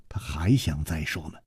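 a soft unvoiced whisper. A narrator's reading. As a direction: breathe it out in a whisper. Whispered narration. (悄声耳语)

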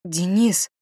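wife gasps at husband's insult; shocked gasp. A narrator's reading. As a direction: gasp his name in shock. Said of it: "ахнула я".

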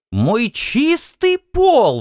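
high, slow outraged cry. Acted. Housewife scolds the captain for dirt, high and outraged. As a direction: wail over her clean floor. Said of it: "возмутилась она".

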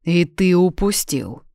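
king barks at his careless secretary; barked. A narrator's reading. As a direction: snap it out, angry and slow. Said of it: "рявкнул Кейден".

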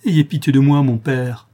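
crying out. A narrator's reading. Orphan at the monk's feet begging for mercy, crying out. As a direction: beg urgently for mercy. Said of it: "s'écria-t-elle".

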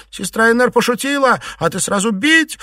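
high, loud cry through tears; girl crying out against the beating; tearful cry. A narrator's reading. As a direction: wail your protest, hurt and crying. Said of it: "сквозь слёзы крикнула Чуньянь".

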